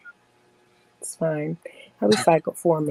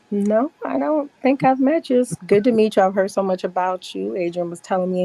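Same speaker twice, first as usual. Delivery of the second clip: fake polite; 3 semitones higher than usual. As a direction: sweetly pretend you've never met. Pretending not to know him.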